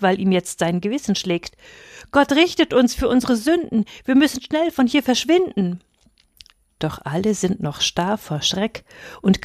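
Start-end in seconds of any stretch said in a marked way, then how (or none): 2.1-5.8 higher, urgent and frightened; panic, urging everyone to flee; agitated fear. Acted. Guilty shepherd urges escape from God's judgment, higher and panicked. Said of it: "Jonathan ist aufgeregt".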